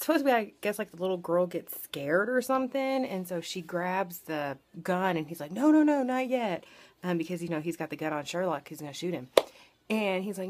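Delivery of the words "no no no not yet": higher, louder retold "no, no, no"; urgent mock protest. Retelling him stopping the girl, urgent mock protest. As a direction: act out an urgent stop. Acts out his urgent stop.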